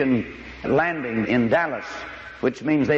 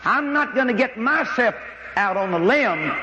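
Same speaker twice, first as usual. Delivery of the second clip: mock timid excuse; 10 semitones higher than usual. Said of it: "I hear people say".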